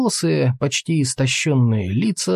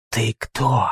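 hissing voice. Acted. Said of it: "тихий, слегка шипящий голос".

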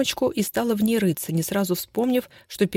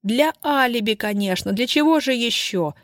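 steely voice; 4 semitones higher than usual. Acted. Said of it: "стальным голосом сказала Изольда".

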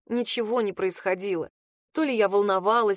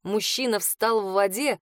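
ordinary delivery

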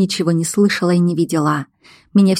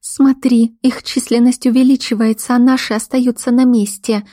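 higher-pitched, indignant report; 6 semitones higher than usual. A narrator's reading. Woman points at the screen, indignant. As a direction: protest urgently in a raised pitch. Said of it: "с возмущением буркнула она".

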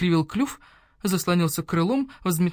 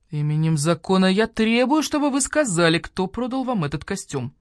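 stern demand; 4 dB louder than usual. Acted. Badger-cat demands by law.

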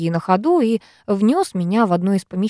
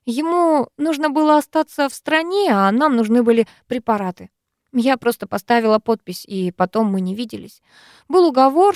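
ordinary delivery, nothing marked

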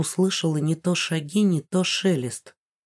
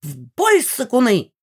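put-on higher, bossy old lady command; commanding old woman; 6 semitones higher, 3 dB louder than usual. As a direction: order the charge like a granny. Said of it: "скомандовала Мегара".

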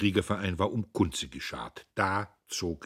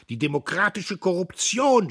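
high, loud, frenzied accusation; passionate shout; 12 semitones higher, 8 dB louder than usual. A narrator's reading. Dietrich accuses old Buck, shouting in a passion. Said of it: "schrie er, tanzend vor Leidenschaft".

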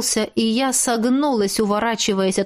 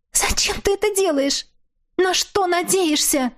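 tearful plea; 10 semitones higher than usual. A narrator's reading. Captive woman pleading tearfully with her ex-husband. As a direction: beg him to explain, near crying.

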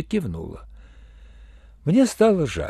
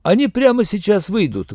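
lightly booming, higher and louder; booming promise; 6 semitones higher, 5 dB louder than usual. A narrator's reading. Yurenev promises Iya they are coming, booming. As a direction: project a confident promise down the line. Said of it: "громогласно пообещал Юренев".

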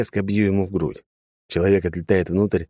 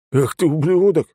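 higher, louder furious yell; shouting curse; 10 semitones higher, 4 dB louder than usual. A narrator's reading. Fanatic cursing the intruder, furious high shout. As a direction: scream the insult. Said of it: "начал кричать второй".

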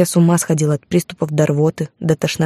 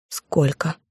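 softer, hoarse and strained; hoarse question; 6 dB quieter than usual. Acted. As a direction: force the word out through a dry throat. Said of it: "хрипло спросила я".

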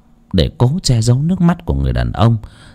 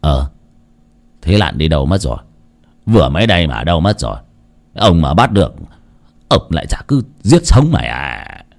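bewildered; 4 semitones lower than usual. Acted. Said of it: "Lão ngơ ngác".

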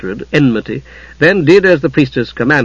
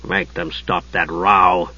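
lower, slow and soft; softly; 7 semitones lower, 6 dB quieter, slower than usual. A narrator's reading. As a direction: say it quietly, half-hearted. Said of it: "he said it softly".

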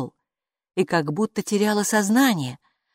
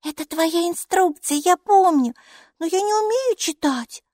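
upset; 12 semitones higher than usual. Acted. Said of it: "огорчённо сказала Майки".

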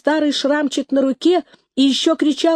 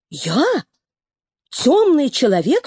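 outraged question; indignant cry; 2 semitones higher than usual. A narrator's reading. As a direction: cry out in disbelief. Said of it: "вскричал серый".

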